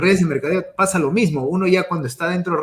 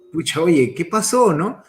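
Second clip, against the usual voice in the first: startled surprise; 3 semitones higher than usual. Retold or imitated. Speaker just got hit by car.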